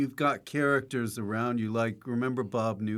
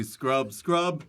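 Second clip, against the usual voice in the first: higher, drawn-out scrub takes; repeated recording takes; 4 semitones higher, much slower than usual. Acted. Actor shows host the recording session, repetitive performed takes. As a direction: act out endless studio takes of one word. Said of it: "the recording would just be".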